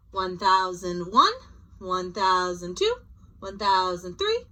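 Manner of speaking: slow, drawn-out counting with rising ends; counting slowly. Shown as a demonstration. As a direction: count off the seconds patiently. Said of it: "give them a couple seconds".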